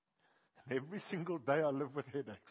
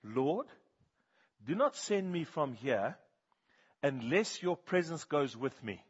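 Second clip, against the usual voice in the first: slow, louder, earnest plea of Moses asking not to be sent away; pleading Moses; 3 semitones higher, 5 dB louder, slower than usual. Retold or imitated. Moses pleading with the Lord, slow and earnest. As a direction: beg slowly, from the heart. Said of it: "Moses says".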